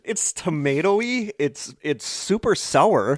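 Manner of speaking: talking around candy in mouth; words muffled by a lollipop; mouth full of hot food. Real, not acted. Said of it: "I just burnt my mouth".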